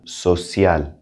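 social in Spanish, C said like S; social, Spanish pronunciation, no SH sound. Shown as a demonstration. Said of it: "The C has an S sound".

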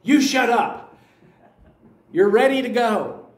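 aunt snaps at her teasing cousin, mock angry; mad snap. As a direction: play the aunt snapping back, half-joking. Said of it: "looked at her really mad and went".

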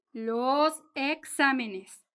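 "exámenes" drawn out slowly, stressed on the A; slow down and lean on the "xá" in "exámenes". Shown as a demonstration. Teacher showing where plural exámenes takes its accent, stress on the A. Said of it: "lleva acento".

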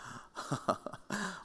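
cocky little laugh; a quick smug chuckle. Retold or imitated. A smug chuckle from Joshua, gloating that the angel armies have arrived. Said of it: "arrogantly saying".

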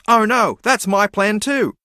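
high, slow mock zebra voice; a zebra caught out, high and drawn out. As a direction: squeak it out as the worried zebra. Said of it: "this other zebra goes".

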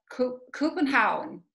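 Copenhagen tried slowly as "koopen-haun"; learner's Danish attempt. Shown as a demonstration. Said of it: "I'm gonna try it".

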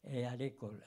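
French with a Swiss German accent. Real, not acted. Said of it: "mon français fédéral". (accent suisse allemand en français)

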